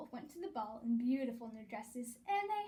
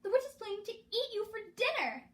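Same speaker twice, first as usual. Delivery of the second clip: higher, loud urgent warning; yelled; 9 semitones higher, 5 dB louder than usual. A narrator's reading. Gertie warning the children about the witch, yelling. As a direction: shout it out to save them. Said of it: "she yelled".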